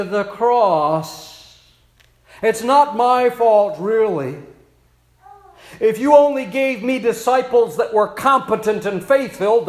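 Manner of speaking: complaining, pleading voice; whiny protesting Jesus. Pretend. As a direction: whine out excuses to the Father.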